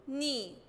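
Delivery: "ني" sounded as one lone syllable; kasra sound. Shown as a demonstration. Teacher shows noon with kasra, "ني" sounded out. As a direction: say "ني" as noon with an i vowel. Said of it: "تحتها كسرة هنطق وأقول".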